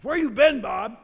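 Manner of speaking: high, loud eager question; excited greeting. Retold or imitated. Narrator greeting Bob at the door, loud eager call. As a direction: call out to him in relief.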